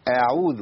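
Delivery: أعوذ with a thin, light opening a; light hamza. Shown as a demonstration. Teacher shows the correct way, light hamza in أعوذ. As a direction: keep the first sound of أعوذ light. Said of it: "يبقى رق الهمزة".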